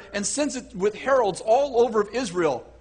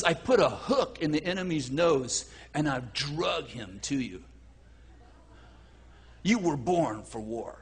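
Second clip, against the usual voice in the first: solemn divine decree; 6 semitones lower, 6 dB quieter than usual. Acted. Quotes God's solemn word to congregation.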